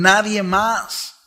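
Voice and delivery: high, loud and drawn out; "nadie más" preached slowly at full force; slow fervent shout. Acted. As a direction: stretch each word as the climax. Preacher building to climax.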